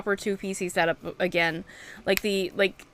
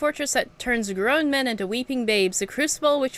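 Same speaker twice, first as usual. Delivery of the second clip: lightly voiced grand showman, proclaiming; a hint of a theatrical course master; announcer NPC voice; 2 semitones higher than usual. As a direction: read it like a boastful arena host. Reads game NPC dialogue aloud.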